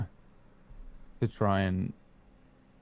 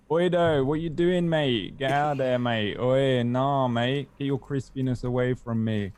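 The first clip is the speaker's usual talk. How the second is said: cheeky higher London Cockney orc; 4 semitones higher, 3 dB louder, slower than usual. Acted. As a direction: ham up a Cockney orc shooing a mate off. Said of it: "London Cockney".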